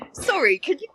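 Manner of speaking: high, incredulous "can you not"; exasperated. Retold or imitated. Exasperated retort to rude passenger.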